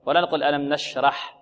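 نشرح said the wrong way; wrong take. Shown as a demonstration. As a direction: show the mistake in نشرح. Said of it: "خطأ".

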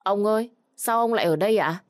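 put-on a little girl startled to see grandpa; surprised. A narrator's reading. Girl surprised to see grandfather at school, startled high call. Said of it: "Hương ngạc nhiên".

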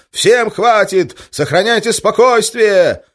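slow, high, loud panicked call; panicky shout. Acted. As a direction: yell for calm in a panic. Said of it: "паническим голосом".

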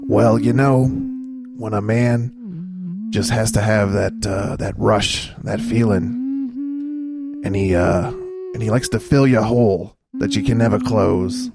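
slow, hammed-up tragic storytelling; mock somber confession. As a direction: overdramatic sad confession. Mock somber sexual confession over music.

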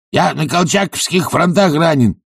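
high, yapping bark of a claim. A narrator's reading. Sharikov barks his lie about wartime wounds. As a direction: bark it out like a dog. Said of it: "пролаял он".

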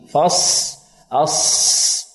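فص and أص ending on a long hissed ص; still sad. Shown as a demonstration. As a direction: hold the ص of فص with no vowel after it. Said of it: "تسكين الصاد".

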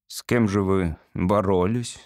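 low, sinking question; crestfallen. Acted. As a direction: ask it with your heart sinking. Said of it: "спросил папа упавшим голосом".

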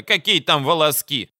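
high, loud mocking exclamation; exclaiming. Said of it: "воскликнула Бадая".

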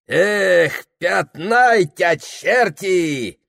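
loud, high, slow drawn-out curse; smacking-lips exclamation. Acted. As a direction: Filka savours it and swears, drawing it out. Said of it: "причмокнул Филька".

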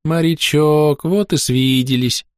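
high, slow, sniffling teary greeting; tearful. Acted. Young recruit tearfully greets his old comrade, slow and teary. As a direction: draw it out like a weepy boy. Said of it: "протягивая слезливо".

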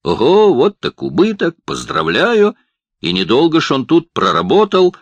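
loud mocking cries from the crowd; jeering shouts. A narrator's reading. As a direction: jeer loudly at the dishwasher. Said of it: "крики".

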